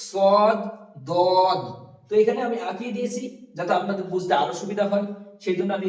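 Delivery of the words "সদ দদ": সদ and দদ said loud with the tongue edge on the gums; firm, heavy সদ then দদ; emphatic Arabic sad and dad. Shown as a demonstration. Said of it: "জিভের কিনারাটা লাগিয়ে উচ্চারণ করতে হবে". (জোরে, জিভের কিনারা মাড়িতে লাগিয়ে সদ, দদ)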